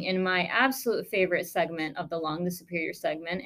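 dry sarcasm, praising what you hate; deadpan mock enthusiasm for a hated spot; sarcastic. Real, not acted. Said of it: "I am being sarcastic here".

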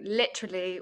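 lightly put-on British accent. Shown as a demonstration. Showing a word picked up from others, light British accent. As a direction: borrow a friend's British pronunciation. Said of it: "with a British accent".

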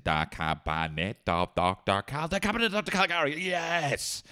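high, fast triumphant guess; high-pitched gloating charades guesser; smug quick guesser. Retold or imitated. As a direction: shout out the answer like a know-it-all. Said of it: "people literally saying".

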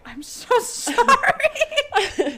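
high, drawn-out apology that breaks into a laugh; mock sorry, giggling through it; laughing fake apology. Apologising to her cousin for the scratches, laughing.

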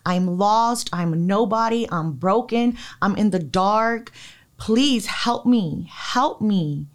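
retold crying plea. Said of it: "I actually was crying onto God".

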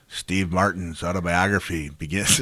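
a hammed-up, bad Irish brogue; lightly put-on Irish accent, badly done; imitating an Irish comic in a terrible Irish brogue. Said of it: "this is the worst Irish brogue you'll ever hear".

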